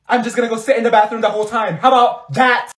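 loud, fast whiny threat; dramatic outburst. Real, not acted. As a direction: storm off in a huff.

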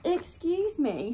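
timid little voice; a tiny beetle politely interrupting. Acted. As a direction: speak up small from below. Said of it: "said a tiny voice".

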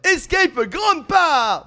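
high, bright rush of news; excited. Real, not acted. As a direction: tell the friends the big find, fast. Finds a new map, thrilled.

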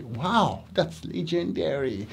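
teacher's soft repeat of the praise; quiet praise. Retold or imitated. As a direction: say it calmly and quietly. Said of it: "Yes, I say".

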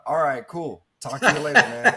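loud, high, offhand bro voice; mock-casual young guy shrugging it off; typical dude brush-off. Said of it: "I would respond with a typical".

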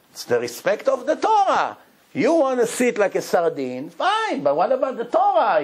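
a lightly voiced exasperated wife; nagging wife. Wife scolding her husband about flying economy, nagging.

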